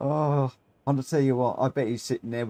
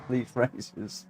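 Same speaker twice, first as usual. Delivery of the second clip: ordinary delivery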